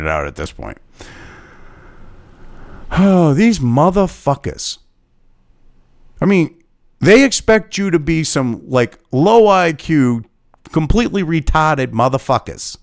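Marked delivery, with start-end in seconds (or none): 2.9-12.8 slow, angry Boston twang breaking through; slipping Boston accent. Real, not acted. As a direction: let the Boston accent leak out when riled. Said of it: "that was my New England, uh, fucking Boston shit coming out".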